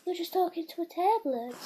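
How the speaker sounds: lightly high dog voice; dog's voice. Pretend. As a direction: keep the dog's voice a little up.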